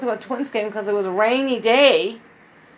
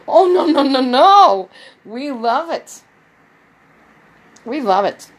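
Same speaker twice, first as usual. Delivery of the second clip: loud, laughing no-no; laughing protest; 5 semitones higher, 8 dB louder than usual. Retold or imitated. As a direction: laugh it off and insist.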